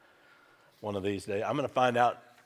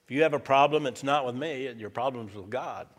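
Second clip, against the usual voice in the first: firm loud retort; 2 semitones higher, 6 dB louder than usual. Retold or imitated. Pastor retells firm answer.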